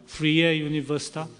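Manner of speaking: Freie Universität pronounced the German way; careful try at German Freie Universität; attempted German pronunciation. Shown as a demonstration. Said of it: "Is my pronunciation close".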